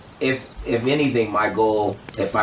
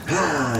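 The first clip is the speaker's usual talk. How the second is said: imitated baby coo; 7 semitones higher than usual. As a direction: coo like a happy infant. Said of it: "you see my little nephew go".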